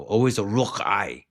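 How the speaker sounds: hammed-up Asian accent on the command; lightly put-on Asian accent for a laugh; mock Asian accent. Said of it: "you do it with an Asian accent".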